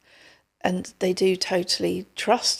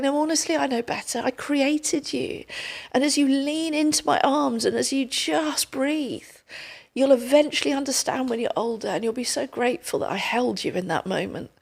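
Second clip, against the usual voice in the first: gentle reassuring God; 3 semitones higher, 3 dB quieter than usual. Retold or imitated. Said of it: "God's there ... going".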